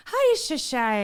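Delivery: stuttering. Pretend. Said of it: "throwing in the Heidi stutter".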